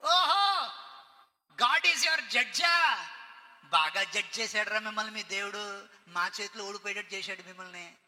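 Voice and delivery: loud drawn-out sneer at the name; mocking teacher. Babylonian teacher mocking Daniel's name, loud and scornful. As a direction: taunt him, stretching the words.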